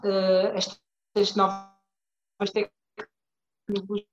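glitchy, breaking-up connection; words dragging on a freezing call; choppy call audio. Real, not acted. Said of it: "Espera aí que estás a frisar".

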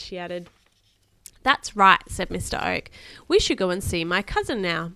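put-on lively read-aloud to a child; expressive bedtime story reading. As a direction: read a children's adventure aloud with emphatic key words.

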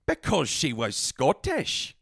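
slow, mock Scottish accent. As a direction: draw it out in a put-on Scottish accent. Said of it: "as well as I do a Scottish accent".

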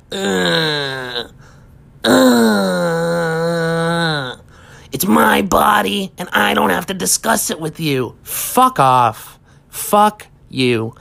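mock whimpering whine, then a strained whisper-shout; hammed-up self-pitying wail; whiny crying rant. A mock tattooed person whining at a curious stranger, strained whisper-shout. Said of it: "go on a fucking rant and, like, cry".

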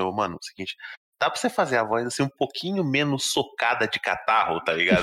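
hushed director aside. Retold or imitated. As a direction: murmur to the voice actor. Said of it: "Tipo assim".

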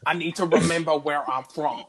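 lightly put-on Brooklyn accent, like an old politician; a hint of hammed-up Brooklyn. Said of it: "I sound like Bernie Sanders".

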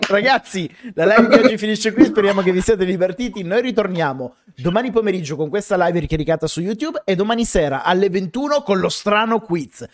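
upbeat stream sign-off announcement; announcer voice. Acted. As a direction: wrap up the live like a host. Closing announcement of the live.

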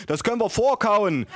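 storyteller's high mother voice; mother calling out. A narrator's reading. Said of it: "rief meine Mutter".

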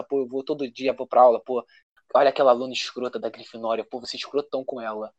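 low, soft grumbling teacher; bitter teacher voice. Pretend. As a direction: grumble it like a sour professor. Imagined bitter teacher's thoughts.

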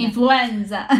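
quick mock Italian accent. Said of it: "Falei com sotaque italiano". (sotaque italiano de brincadeira)

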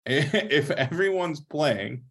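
slow, laughing through the words. Real, not acted. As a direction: chuckle while repeating it. Repeats line while laughing.

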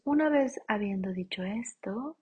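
soft whispered aside; a whispered aside to viewers. Acted. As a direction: breathe it out.

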